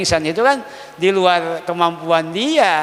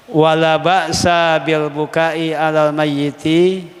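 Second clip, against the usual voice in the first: slow, measured reading of the Arabic line; text recitation; slower than usual. Acted. Teacher reading the kitab text to students, slow recitation.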